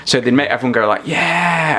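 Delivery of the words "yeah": raised, drawn-out mock cheer; mock crowd cheer. Audience told to cheer for the camera, mock cheer. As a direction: cheer on cue like a studio audience.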